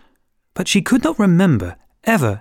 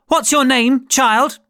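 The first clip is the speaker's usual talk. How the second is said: imperious queen; 10 semitones higher, slower than usual. Acted. Queen questions Alice.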